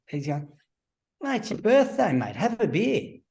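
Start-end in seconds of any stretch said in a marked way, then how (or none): 1.2-3.2 much higher, hammed-up coach urging a drink; mock pushy coach. Coach urging the player in front of teammates, mock insistent. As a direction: push the beer on him in the coach's voice.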